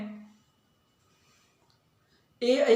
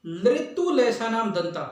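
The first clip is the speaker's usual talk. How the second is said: teacher reciting slowly; slow recitation of the rule; slower than usual. Shown as a demonstration. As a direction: recite लृतु लेसा नाम दंता slowly, each word clear. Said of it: "अगली बात करते हैं हम".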